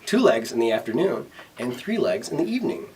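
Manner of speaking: mildly smug riddle-master. Acted. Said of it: "he asked smugly".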